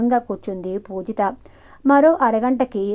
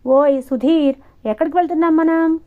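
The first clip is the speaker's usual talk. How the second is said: much higher, hurried alarm; anxious question; 6 semitones higher, 4 dB louder than usual. A narrator's reading. Pujitha on the bike asks Sudhir, alarmed. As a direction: panic as the bike goes the wrong way. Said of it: "కంగారుగా అడిగింది".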